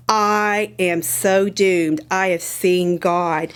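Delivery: slow, drawn-out quote of doom; retold dread. Gideon realizing he has seen God, retold in slow dread. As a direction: stretch out each word, mildly dramatic.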